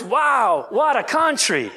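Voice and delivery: put-on punchline in a light Russian accent; lightly imitated Russian comedian's accent. Preacher delivering a comedian's punchline, light Russian accent. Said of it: "that's my best Russian accent".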